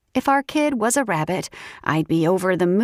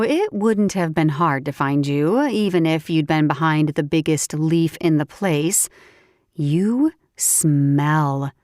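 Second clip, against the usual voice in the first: lower, teasing woman's voice; teasing friend voice; 4 semitones lower than usual. Acted. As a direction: tease him playfully.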